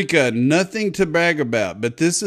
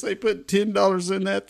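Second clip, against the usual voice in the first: usual speaking voice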